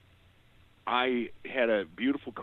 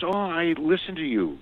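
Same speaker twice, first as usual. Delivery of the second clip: excited; 9 semitones higher, 7 dB louder than usual. Retold or imitated. Clerk recognizing radio host.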